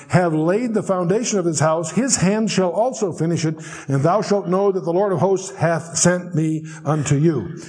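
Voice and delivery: deliberate verse reading, slowing to the close; scripture reading. Acted. Teacher reads the builder's promise to listeners, scripture reading. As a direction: read it out formally, weighing the final phrase.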